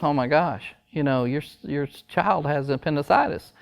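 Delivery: softly spoken, mildly sad doctor; mock sad. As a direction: break bad news gently, lightly acted. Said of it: "very sad and goes".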